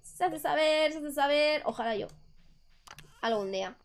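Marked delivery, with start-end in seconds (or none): 0.0-1.6 high crier call; town crier. Retold or imitated. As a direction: herald the news. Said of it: "¿Sabéis?".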